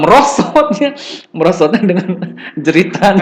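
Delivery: high laughing retelling. Real, not acted. Lecturer retelling the bike slide, laughing. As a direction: giggle through the words.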